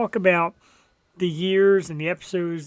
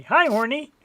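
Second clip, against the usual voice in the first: put-on Asian accent; 8 semitones higher, 3 dB louder than usual. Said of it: "I shouldn't do the Asian accent".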